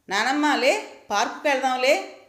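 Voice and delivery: put-on high, pleading little boy tugging at grandma; a small boy begging to go out; eager child voice. Grandson begging his sleepy grandmother, high eager child voice.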